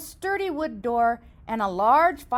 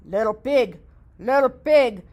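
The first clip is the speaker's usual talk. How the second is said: growling wolf; 4 dB louder than usual. Acted. Wolf at the door, lightly growled. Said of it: "he growled".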